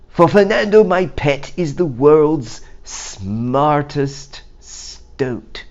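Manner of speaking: high, loud proud goat; boasting goat. Acted. Goat showing off his pet to the crowd, loud and proud. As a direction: crow about the pet.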